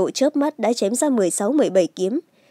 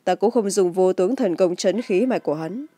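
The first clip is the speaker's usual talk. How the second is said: calm, even explanation; composed, matter-of-fact male character; nonchalant. A narrator's reading. Chu Bạch Tự explains his bluff, nonchalant. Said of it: "Chu Bạch Tự thản nhiên nói".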